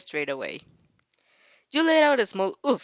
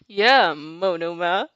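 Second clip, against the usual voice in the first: yapping; 3 semitones lower, 4 dB louder, much slower than usual. Acted. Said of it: "Shinso yaps".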